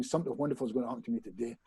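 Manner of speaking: fast, soft throwaway affirmation; rushed mumble. Retold or imitated. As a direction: rattle it off quietly to get it done. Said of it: "So I do the thing".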